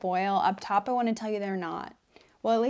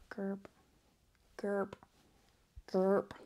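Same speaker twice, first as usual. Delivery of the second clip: demonic whisper; 7 dB quieter, much slower than usual. Acted. Whispered lines.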